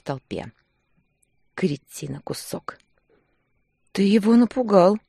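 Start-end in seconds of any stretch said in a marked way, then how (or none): 3.9-5.0 softly. A narrator's reading. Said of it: "мягко произнесла Таня".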